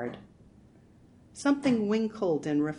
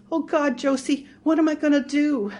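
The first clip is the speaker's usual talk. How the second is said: sobbing; 10 semitones higher, 10 dB louder than usual. Acted. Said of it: "She started to sob in earnest".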